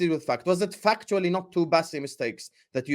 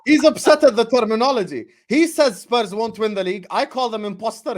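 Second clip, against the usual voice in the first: bad acting; 5 semitones higher, 4 dB louder than usual. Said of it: "I just sound like an asshole".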